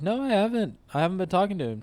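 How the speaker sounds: high-pitched imitation of a defensive boyfriend; mock protest. Boyfriend denies it in retold quarrel.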